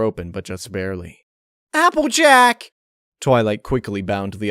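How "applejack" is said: alarmed cry. A narrator's reading. Friend collapses, cry out.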